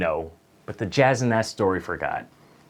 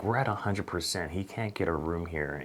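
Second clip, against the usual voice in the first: whisper; 5 semitones lower, 10 dB quieter than usual. Retold or imitated. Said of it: "my M O D whispers to me".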